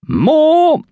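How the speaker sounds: high, loud single-word command; stern. A narrator's reading. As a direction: punch out one word at full pitch. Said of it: "the butler said sternly".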